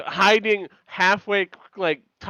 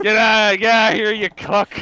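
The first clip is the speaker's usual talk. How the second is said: loud comic yell, pitched up; mock yell; 4 semitones higher, 6 dB louder than usual. Stefan chasing Ben out of town, loud mock yell. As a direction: shout him out the door.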